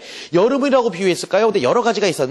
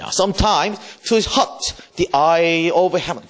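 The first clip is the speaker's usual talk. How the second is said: slow poem recital; much slower than usual. Shown as a demonstration. Teacher reading sonnet aloud to class, slow recital. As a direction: stretch every word of the verse.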